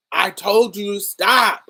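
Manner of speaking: loud, high, tearful shout; child's furious crying yell; crying angry yell. Retold or imitated. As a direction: yell it through tears at the uncle. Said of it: "start crying and angry".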